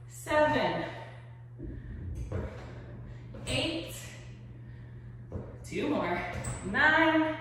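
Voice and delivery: upbeat fitness coach cueing reps; aerobics instructor. Acted. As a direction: pump up the class, count it.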